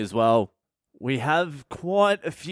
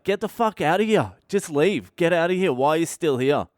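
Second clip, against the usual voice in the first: higher-pitched, urgent telling-off; retold exasperated order; 4 semitones higher than usual. Canadian bar dude ordering him out of the bar, exasperated. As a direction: imitate someone throwing a troublemaker out.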